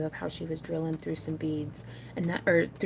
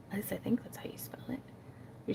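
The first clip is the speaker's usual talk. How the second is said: whispering; 10 dB quieter than usual. Real, not acted. Unsure aside while spelling name.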